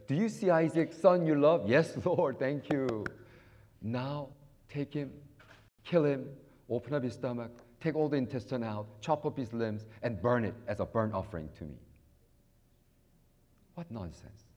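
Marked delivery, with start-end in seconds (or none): 0.1-11.8 loud dramatic divine command; lightly voiced God commanding. God ordering Abraham to sacrifice Isaac, loud and dramatic. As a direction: give Abraham the order with weight. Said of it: "God comes to Abraham and said".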